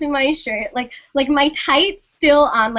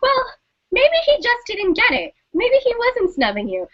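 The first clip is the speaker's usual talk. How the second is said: put-on higher, reassuring girlfriend voice; roommate's voice; 8 semitones higher than usual. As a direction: voice the comforting roommate, pitched up. Roommate voiced in a retold story.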